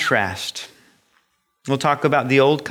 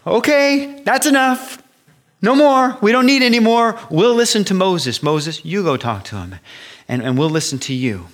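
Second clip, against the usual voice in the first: panicked people; 7 semitones higher than usual. Retold or imitated. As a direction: beg for it to stop, terrified. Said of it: "the people said".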